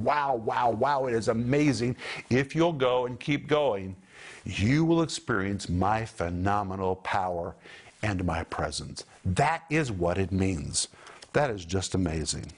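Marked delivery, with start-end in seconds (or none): 0.0-9.0 a preacher giving Jesus' promise with awe, amazed; awed, amazed. Shown as a demonstration. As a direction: marvel at each wow, voice lifting with wonder. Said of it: "Jesus saying".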